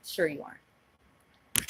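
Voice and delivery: slow, drawn-out sarcastic "Sure you aren't"; dry disbelief, drawn out slowly. Real, not acted. Sarcastic disbelief at his claim.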